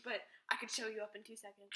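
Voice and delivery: hushed unvoiced whisper. Real, not acted. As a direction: drop to a whisper. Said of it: "whispered aside".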